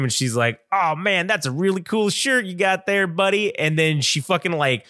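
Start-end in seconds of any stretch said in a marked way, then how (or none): 0.7-3.6 higher-pitched puppet character voice; Unihorse. Retold or imitated. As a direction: imitate a puppeteer voicing a cheeky horse. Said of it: "a lady who was voicing him".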